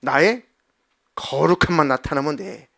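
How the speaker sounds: loud scolding from above; stern rebuke. Acted. God rebuking Moses, loud and stern. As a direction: scold him firmly as God. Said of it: "모세를 막 책망하".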